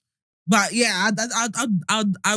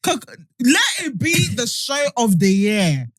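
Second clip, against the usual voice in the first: slow, drawn-out mock complaint; hammed-up grievance. Jesus reminds God it would be brief, mock aggrieved. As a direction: protest like you were badly misled.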